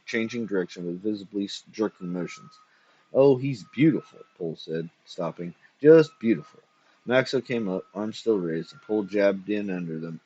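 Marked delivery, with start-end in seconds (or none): 3.1-4.2 admiring and pleased; thrilled with the robot; delighted. A narrator's reading. 5.8-6.6 louder, higher, overjoyed; thrilled, almost shouting; delighted. A narrator's reading. Delighted over robot.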